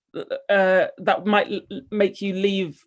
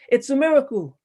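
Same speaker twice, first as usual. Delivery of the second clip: high, raised cry of a miracle; joyful shout; 7 semitones higher, 4 dB louder than usual. A narrator's reading. Crowd cheering someone who revived from a faint, high mock shout. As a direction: cry it out high, falling at the end.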